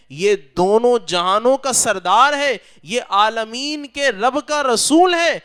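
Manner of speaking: high, loud urgent warning; urgent retold shout. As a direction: urge the uncle to flee, loudly. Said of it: "وہ چیخنے لگا".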